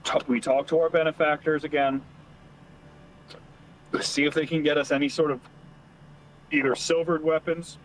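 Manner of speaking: talking through hiccups; hiccuping between words. Real, not acted. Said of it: "Sorry for the hiccups".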